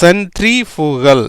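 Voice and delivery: சென்ட்ரிஃபுகல் stretched out part by part; teacher's slow model of சென்ட்ரிஃபுகல்; slow sounding-out. Shown as a demonstration. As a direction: say சென்ட்ரிஃபுகல் slowly, syllable by syllable. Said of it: "எப்படி வந்திருக்கு பாருங்க".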